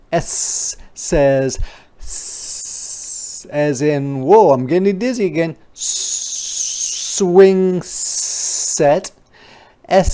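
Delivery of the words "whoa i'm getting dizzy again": dizzy whoa. Acted. Dizzy on swing set.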